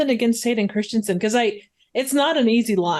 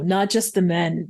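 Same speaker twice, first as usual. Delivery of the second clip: lower, plainly stated line; almost deadpan; 5 semitones lower than usual. Shown as a demonstration. Suggesting a less emotional read of the movie line, deadpan. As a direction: state it low, without forcing the emotion. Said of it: "almost deadpan, just stating it".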